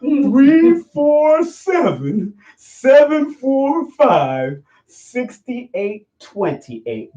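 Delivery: drawn-out, high-pitched digits falling at the end. Shown as a demonstration. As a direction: spell the number out very slowly for slow listeners. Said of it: "say it slower for you".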